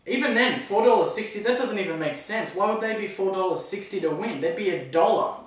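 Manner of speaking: incredulous. Real, not acted. Outraged at wrong betting odds.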